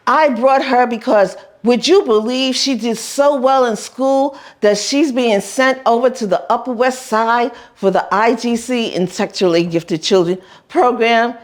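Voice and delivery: high proud bragging voice; bragging Madame. Retold or imitated. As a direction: show the child off proudly. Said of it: "Madam is saying".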